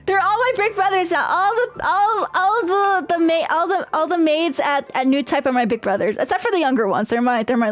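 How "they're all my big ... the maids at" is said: high, giggling through the words; laughing. Real, not acted. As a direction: laugh while talking. Giggling after teehee.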